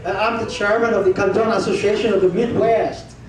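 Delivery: lightly put-on Chicago accent; a hint of mock Chicago accent; imitated Chicago accent. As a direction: mimic an expatriate's American accent. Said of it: "But Chicago accent pala".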